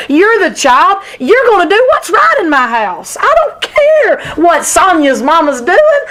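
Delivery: put-on rising, heated parent scolding a child; stern parent. Preacher voicing a firm parent scolding child.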